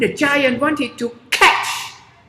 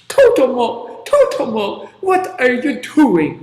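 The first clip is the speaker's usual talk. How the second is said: calling giant; 5 dB louder than usual. Acted.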